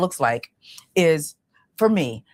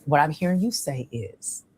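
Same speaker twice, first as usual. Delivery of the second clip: gentle reflecting back. Shown as a demonstration. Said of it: "I like".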